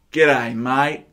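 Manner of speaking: imitated broad Australian greeting; casual Aussie twang, imitated; broad Aussie accent. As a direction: mimic a local nailing an Aussie accent. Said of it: "complete with the accent".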